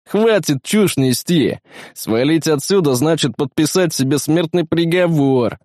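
stern rebuke. Acted. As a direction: put a wavering soldier firmly in line. Commander rebukes a scared teammate. (строгая отповедь, на повышенном тоне)

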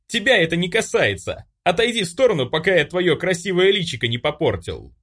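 bully shrieks at Olga; hysterical shriek. A narrator's reading. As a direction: shriek it, out of control.

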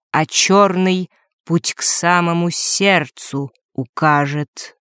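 slow, solemn recital of verse; solemn declamation. A narrator's reading. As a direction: declaim it like a prophecy. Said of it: "торжественно продекламировал".

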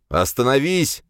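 mildly shouted command; shouted order. A narrator's reading. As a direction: call out a sharp order. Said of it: "крикнул я".

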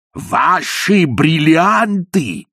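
a startled shout, dragged out slowly; scared by the force of his own voice, yelling; shouted in alarm. A narrator's reading. Ippolit to the dying mother-in-law, startled shout. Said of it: "закричал он".

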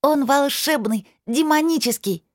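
put-on high excited little girl gushing; a child bursting with delight; breathless rapid chatter. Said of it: "с восторгом взахлёб затараторила".

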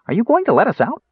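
high-pitched hopeful question; eager. A narrator's reading. Kender asking to be let out, eager. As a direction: pipe up eagerly. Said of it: "Tass asked eagerly".

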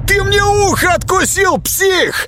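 very high, loud enraged yell; John screaming at the biter; pained shout. Acted. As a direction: scream in pain and fury.

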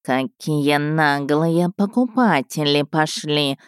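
slow, lazy cat purr. Acted. Cat Toby purrs indignantly at the rude buyers. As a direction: let it roll out slowly like a purring cat. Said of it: "мурлыкнул Тоби".

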